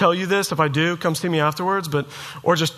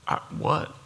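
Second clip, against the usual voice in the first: stunned whisper; 8 dB quieter than usual. Retold or imitated. Stunned reply to tree guy.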